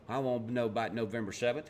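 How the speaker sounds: lightly put-on hillbilly accent; a hint of hillbilly in the demand; hillbilly Republican accent. Republican answering when he wants to know, hillbilly Republican accent. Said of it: "That was my hillbilly Republican accent".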